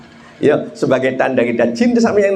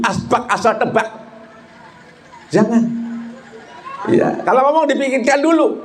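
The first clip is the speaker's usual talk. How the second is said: high-pitched, sustained preacher's delivery; impassioned preaching; 8 semitones higher than usual. Acted. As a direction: preach it high to the whole congregation. (ceramah berapi-api dengan nada tinggi)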